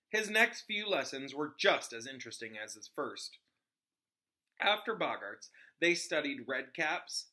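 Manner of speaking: steady read-aloud storytelling voice; story narration. Acted. Reader narrating a book chapter to her audience, storytelling. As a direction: read the chapter to listeners, even and clear. Reads Harry Potter aloud.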